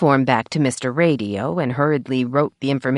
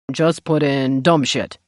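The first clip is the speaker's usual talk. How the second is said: dry deadpan. A narrator's reading. Sheriff's dry joke.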